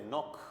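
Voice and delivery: नोक with long o and a final kh; kh ending. Shown as a demonstration. Teacher blending N-O-CH for learners, नोक ending in kh. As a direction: end नोक on a kh sound. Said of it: "सीएच का ख".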